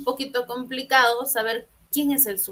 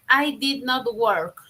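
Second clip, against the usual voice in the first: slow model sentence; slower than usual. Shown as a demonstration. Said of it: "su respuesta sería".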